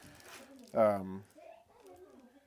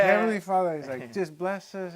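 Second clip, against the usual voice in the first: higher and louder, impassioned praying; fervent prayer; 7 semitones higher, 7 dB louder than usual. Retold or imitated. The stranger praying full out at the table, fervent. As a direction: lift it up like a loud prayer.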